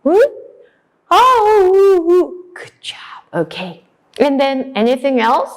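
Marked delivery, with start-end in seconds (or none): 1.1-2.3 high, drawn-out howl; wolf howl. Shown as a demonstration. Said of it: "can you make the sound?".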